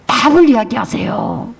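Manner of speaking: ordinary talk, nothing marked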